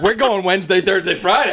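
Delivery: pushy demand. Retold or imitated. Friend showing how he read the group's text, mock bossy. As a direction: lay it down as settled, mock bossy. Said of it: "I'm over here reading it like".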